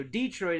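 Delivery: "Detroit" as DEE-troit; long DEE at the front of "Detroit"; Hoosier pronunciation. Shown as a demonstration. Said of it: "another Hoosier pronunciation".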